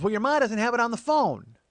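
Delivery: high, loud imitated aunt; nagging aunt. Aunt checking on nephew's data entry, nagging voice.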